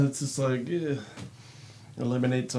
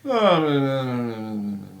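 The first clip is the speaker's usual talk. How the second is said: sleep-talking protest; 4 dB louder than usual. Retold or imitated. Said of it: "I used to be like".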